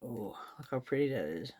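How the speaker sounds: talking around a pencil; words round a pencil held in teeth; pencil in mouth. Real, not acted. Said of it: "Sorry, I got the pencil in my mouth".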